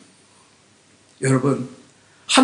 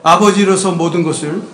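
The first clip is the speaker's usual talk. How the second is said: leading a group reading; 3 semitones lower than usual. Shown as a demonstration. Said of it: "다 같이 읽어봅시다".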